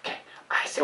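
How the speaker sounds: soft breathy whisper. Acted. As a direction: whisper it shyly into an ear. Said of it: "go ahead and whisper it".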